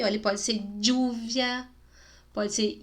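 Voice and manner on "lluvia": "lluvia" opened with a dy-like consonant; regional pronunciation. Shown as a demonstration. Teacher showing regional variants, demonstrated pronunciation. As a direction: start "lluvia" on a hard dy sound. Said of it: "dependendo da região".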